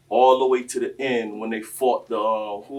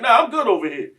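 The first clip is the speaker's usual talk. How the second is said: loud Hulk quote; 11 semitones higher, 14 dB louder than usual. Retold or imitated. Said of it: "He's like".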